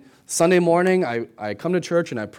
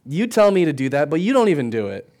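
put-on louder, indignant child calling out his father; kid calling out dad; 6 dB louder than usual. Son calls out his dad's double standard, indignant and louder. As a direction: call your dad out, a bit louder. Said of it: "You're like".

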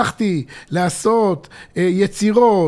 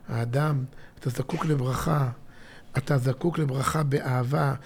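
soft, low and tender, like a priest blessing; gentle blessing; 7 semitones lower, 9 dB quieter than usual. Retold or imitated. Priests blessing a person, soft and loving. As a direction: lay the blessing on him softly.

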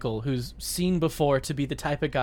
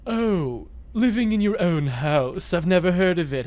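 posh rich guy; 2 semitones higher than usual. Pretend. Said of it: "character we've invented of rich guy".

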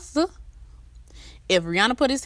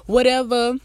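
lightly voiced boyfriend, higher and a bit pushy; mock annoyed boyfriend; 5 semitones higher than usual. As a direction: toss off his complaint like an offended guy. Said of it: "nigga be like".

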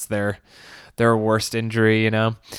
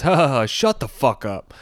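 spelled-out fake laugh turning into a retort; mock laugh; 3 semitones higher than usual. Onlooker laughing back at a laughing kid, mock laugh. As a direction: imitate a sarcastic laugh-back. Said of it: "this Mexican guy laughs back".

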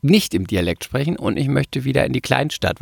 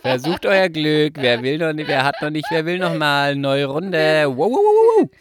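Kirmesansager; 4 semitones higher than usual. Pretend. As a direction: call out the next ride in a singsong. Mimicking a fairground barker's chant. (Ansage wie auf dem Jahrmarkt)

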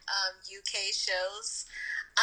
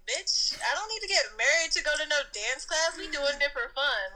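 higher, sassy imagined comeback; mock stuck-up; 5 semitones higher than usual. Woman imagines answering girl at dance class, stuck-up sass. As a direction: put her in her place, snootily. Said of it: "been a little stuck up".

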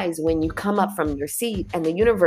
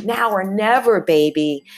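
urgent universe voice; 3 semitones higher, 4 dB louder than usual. Retold or imitated. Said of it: "This is the universe going".

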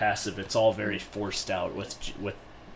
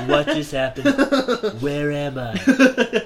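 laughing confused; 3 semitones higher, 5 dB louder than usual. Retold or imitated. Confused player quote, slow.

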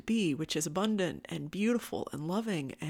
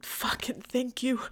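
whispered thanks; 6 semitones higher than usual. Real, not acted. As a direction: whisper it gratefully. Emotional thanks to audience.

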